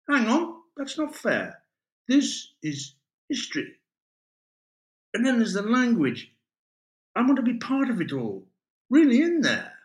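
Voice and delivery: eager, high-pitched idealist in full flow; excited young romantic. Acted. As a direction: plead your case with rising fervour.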